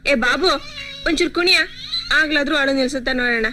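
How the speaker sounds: loud, bossy request; calling out an order. Acted. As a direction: call to a helper over a baby's crying. Calling servant over to dance.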